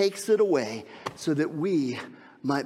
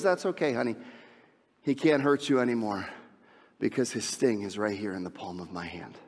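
soothing dad; 5 semitones lower, 4 dB quieter than usual. Retold or imitated. Father soothing daughter in car.

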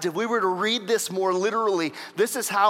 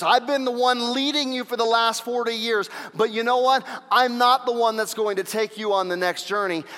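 raised, forceful leader's address; Moses addressing the people; 6 semitones higher, 5 dB louder than usual. Acted. Moses telling Israel he won't lead them on, forceful. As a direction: announce it firmly to a whole crowd. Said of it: "is telling the people".

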